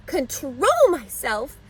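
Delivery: put-on slow, high, indignant child's yell. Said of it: "yelled Fern".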